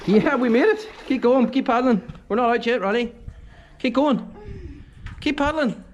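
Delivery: high, loud cheering on; excited cheering. Real, not acted. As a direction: cheer your mate through. Cheering the paddler through the gap.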